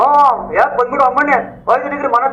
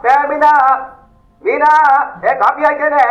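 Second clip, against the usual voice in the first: raised, higher-pitched summons; calling out; 3 semitones higher, slower than usual. Acted. Calling out to Meena about the coffee, raised voice. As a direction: call to someone in another room.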